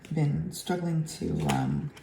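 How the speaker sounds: hoarse from laryngitis; rough, worn-out laryngitis voice; grating voice. Real, not acted. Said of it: "my terrible voice that I have right now".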